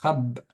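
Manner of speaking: "khab" on its own, closed on the b; isolated syllable. Shown as a demonstration. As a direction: sound out "khab" as one syllable. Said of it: "ça fait une syllabe". (« khab » en syllabe isolée)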